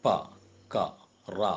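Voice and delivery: "പ, ക, റ" as short, separate syllables; obstructed consonant sounds. Shown as a demonstration. Teacher showing mouth obstruction in consonants, "പ, ക, റ" sounded separately. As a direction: sound out "പ, ക, റ" one by one, briefly blocking the air. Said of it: "അത് ഉച്ചരിക്കുമ്പോൾ ചെറിയൊരു".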